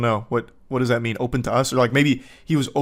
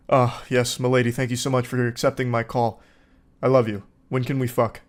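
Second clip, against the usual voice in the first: lightly sending up a creep; mock creep voice. Mocking the coworker's imagined call, a touch of creepy suitor. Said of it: "What were you planning on saying".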